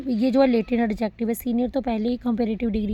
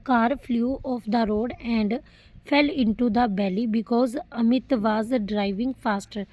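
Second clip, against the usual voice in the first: slow dictation read; much slower than usual. Shown as a demonstration. Teacher reads example sentence slowly.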